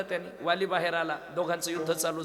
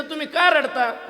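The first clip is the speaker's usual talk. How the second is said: much higher, louder, slow "का"; loud question; 10 semitones higher, 11 dB louder, slower than usual. Retold or imitated. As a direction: call out the question slowly. Husband asks the other man. (उंच, मोठ्या आवाजात सावकाश विचारणे)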